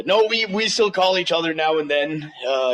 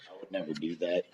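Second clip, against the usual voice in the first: laughing through the words; 12 semitones lower, 14 dB quieter, faster than usual. Real, not acted. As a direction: chuckle while denying. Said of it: "repeat with a laugh".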